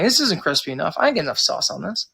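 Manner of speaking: mock wing complaint, lightly imitated; half-hearted imitation of a complainer; complaining customer. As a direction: grumble like a picky regular. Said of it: "gonna complain about their wings".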